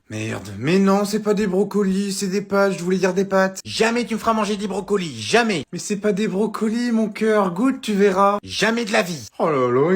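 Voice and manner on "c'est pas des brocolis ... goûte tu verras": coaxing mum. Acted.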